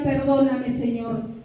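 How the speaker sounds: soft, low retold plea for forgiveness; hushed, humble confession; inward prayer. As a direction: let it sink as if praying inside. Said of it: "dentro en mi corazón le decía".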